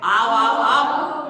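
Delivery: loud drawn-out welcome; sleep-talking merchant calling to the thieves. Retold or imitated. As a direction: call them in loudly from sleep. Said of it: "सेठ जी क्या कह रहे हैं?".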